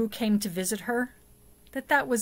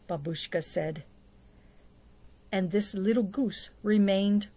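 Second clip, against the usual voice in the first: story narration. A narrator's reading.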